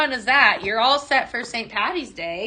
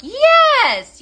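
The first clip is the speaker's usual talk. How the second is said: excited yes; 9 dB louder than usual. Real, not acted. Answering a viewer excitedly.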